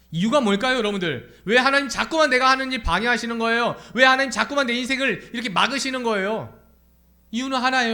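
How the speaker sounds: urgent, insistent sermon voice; impassioned preaching. Real, not acted. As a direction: preach at high pitch and volume.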